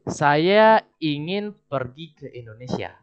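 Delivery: slow, clearly spaced prompt; slow teacher prompt; slow model sentence. Shown as a demonstration. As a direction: read it out slowly for the student. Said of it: "Bahasa Indonesia seperti ini".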